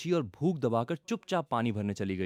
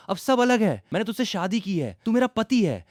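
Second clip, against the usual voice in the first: high, loud tearful plea; रुआंसी, ऊँची आवाज़ में गुहार; on the verge of tears; 10 semitones higher, 6 dB louder than usual. Acted. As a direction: push the words out near crying. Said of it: "रुआंसी आवाज में कहा".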